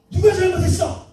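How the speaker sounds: Jesus questioning. Acted. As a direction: raise the voice as if demanding who is at fault. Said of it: "예수님이".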